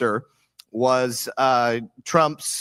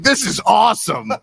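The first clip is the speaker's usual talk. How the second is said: higher, louder, laughing delight; 9 semitones higher, 6 dB louder than usual. Retold or imitated. Daughter recalling her joy at the election, laughing. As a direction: gush through laughter. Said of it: "I was like".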